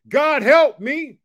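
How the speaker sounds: high, loud, very slow plea; slow call to repeat. Shown as a demonstration. Preacher leading viewers to repeat the prayer, slow and stretched. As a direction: stretch every word of the cry. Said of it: "Can you help me say that".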